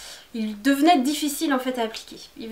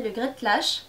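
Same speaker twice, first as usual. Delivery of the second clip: Great Lash said in a self-mocking English accent; lightly put-on English accent on the brand name Great Lash; slower than usual. To her viewers, naming a mascara: playful English accent. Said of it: "avec mon superbe accent anglais".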